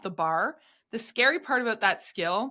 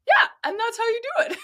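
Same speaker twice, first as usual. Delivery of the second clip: much higher, louder and fast, cocky victory cry; triumphant brag; 6 dB louder, faster than usual. Retold or imitated. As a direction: show off after sticking the landing. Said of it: "was like".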